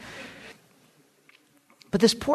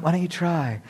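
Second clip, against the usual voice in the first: soft-spoken, even challenge; unruffled invitation to fight; imitated calm; 3 dB quieter than usual. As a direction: repeat the dare mildly, all calm. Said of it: "Nice, all calm".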